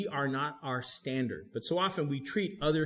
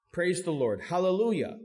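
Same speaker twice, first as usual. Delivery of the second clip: louder, higher shout of praise; cheer; 4 semitones higher, 4 dB louder than usual. Shown as a demonstration. Pastor cheering the psalm's closing praise, loud and high. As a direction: call it out like a cheer. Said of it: "it was a cheer".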